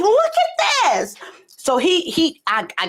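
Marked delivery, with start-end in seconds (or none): 0.1-1.2 high excited squeal, acted out; excited retelling; retold excitement. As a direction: show it off, hammed-up and high. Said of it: "I was, like, all excited".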